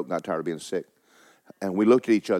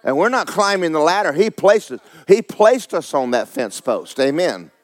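raised, forceful preacher's delivery; emphatic preaching; 6 semitones higher, 5 dB louder than usual. Acted. Preacher telling congregation Jesus made them perfect, emphatic preaching. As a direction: preach it with punched key words.

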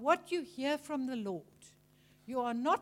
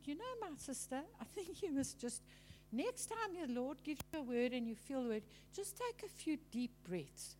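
softer, gentle counsel; calming advice; 9 dB quieter than usual. Retold or imitated. Minister advising the nervous lady, calm and soft. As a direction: quietly reassure a flustered sister.

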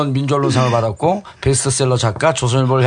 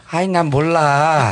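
whiny impression; much slower than usual. Mimicking Joo Jin-woo.

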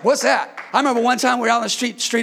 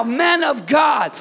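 preaching shout; 2 semitones higher, slower than usual. Real, not acted. Preacher calling out to the men.

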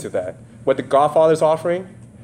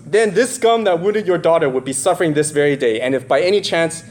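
Godfather quote. Retold or imitated. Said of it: "so he goes".

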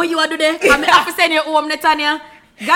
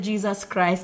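startled mutter; 6 semitones lower, 8 dB quieter, much slower than usual. Retold or imitated. Boyfriend startled at the door.

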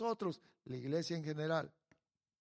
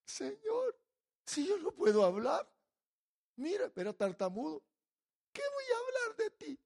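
Moses pleading; 4 semitones higher than usual. Retold or imitated. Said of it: "lo que dijo Moisés".

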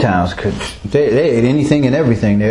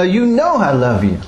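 exasperated protest, pitched up; 5 semitones higher than usual. Acted. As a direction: insist as if asked too many times. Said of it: "he was exasperated".

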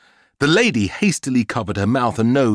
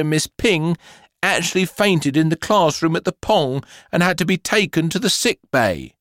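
higher, scolding headmistress; stern telling off; 7 semitones higher than usual. Acted. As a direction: scold a naughty pupil sternly.

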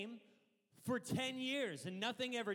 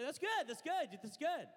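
That's good, rising higher and louder each time; building affirmation; 8 semitones higher, 3 dB louder than usual. Shown as a demonstration. Pastor showing crowd how to agree, building up. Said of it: "You say".

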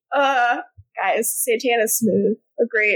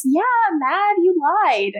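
angry Stefan; 7 semitones higher than usual. Retold or imitated. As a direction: snap back at her, hurt and accusing. Stefan angrily confronting Elena.

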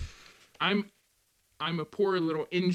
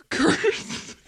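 whispered curse; 11 semitones higher, 4 dB louder than usual. Acted. Mock forbidden word.

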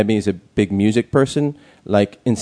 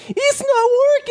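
very high desperate scream. Retold or imitated. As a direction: shriek it like a panicked man. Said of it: "just went".

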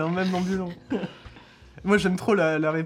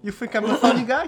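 gangster impression; 6 semitones higher, 6 dB louder than usual. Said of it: "Joe Pesci quote".

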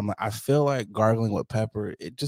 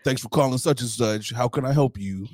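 polite call center greeting; cheerful scripted phone voice; customer service voice. Pretend. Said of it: "customer service voice".

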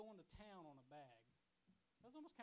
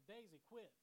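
calling the dog off, a bit louder; mock yell at the dog; 3 semitones higher, 5 dB louder than usual. Half-asleep man calling to his dog: mild yell. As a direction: snap at the dog from bed. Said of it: "So I just yell".

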